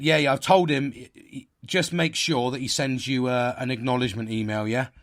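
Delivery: loud, sing-song condescending boss voice; patronising boss. Retold or imitated. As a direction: talk down to him like a child, brightly. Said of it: "And that's how he said it".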